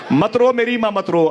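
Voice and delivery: high loud cry. Acted. Unborn child comforts his mother.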